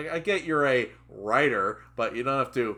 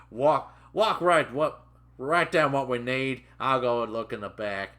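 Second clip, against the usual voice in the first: gruff orders; 5 dB louder than usual. Retold or imitated. Trainer barking orders.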